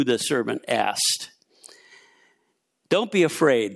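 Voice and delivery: measured, lively Bible story narration; scripture reading. A narrator's reading. Preacher reads Second Kings to the church, measured scripture reading. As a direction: read the passage out to the room.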